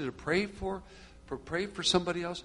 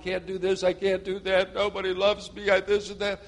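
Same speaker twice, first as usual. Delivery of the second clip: mildly mocking, higher-pitched complaint; self-pity; 4 semitones higher than usual. Preacher mimicking self-pitying Christians, mild mock moaning. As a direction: lightly imitate someone feeling sorry for themselves. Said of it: "if you're feeling sorry for yourself".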